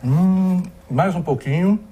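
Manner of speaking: talking with a mouthful of burger; mouth full. Real, not acted. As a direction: speak through a big bite of food. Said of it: "fala com a boca cheia?".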